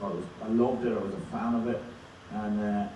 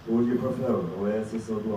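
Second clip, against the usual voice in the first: put-on Swedish accent; 7 dB louder than usual. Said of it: "the Swedish one you did just there".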